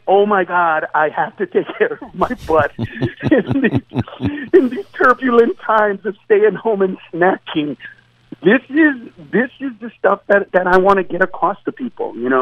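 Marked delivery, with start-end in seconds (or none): 0.1-7.8 mock panicky American. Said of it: "Every American went".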